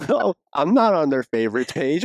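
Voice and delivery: high-pitched mock panic with stammered ohs; comic high-voiced disbelief; mock alarmed denial. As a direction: play suddenly worried, voice jumping up. Acting out feigned realization about oneself.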